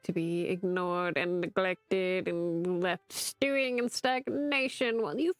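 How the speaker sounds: hammed-up martyr sarcasm; sarcastic. Barnabas mocking his master with theatrical sarcasm. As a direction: lay the self-pity on thick. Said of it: "you're being sarcastic right now".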